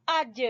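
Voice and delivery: اج with an echoing final j; qalqalah. Shown as a demonstration. Teacher repeating the syllable for students, qalqalah bounce on اج. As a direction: bounce off the j at the end of اج. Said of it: "حروف قلقلہ میں سے۔".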